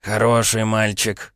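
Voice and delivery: slow mocking praise; sneering. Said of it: "ощерился мужик".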